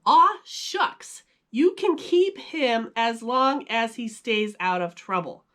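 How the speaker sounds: lightly voiced goofy dad giving in, loud on the aw; father giving in to his son, goofy and warm. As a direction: give in with a cartoon aw shucks. Corrected reread in Goofy voice.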